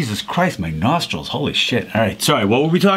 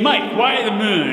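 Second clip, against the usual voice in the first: much higher, slow mock whine; high silly voice; 6 semitones higher, slower than usual. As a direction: squeak it up like a cartoon. Sudden high mocking voice.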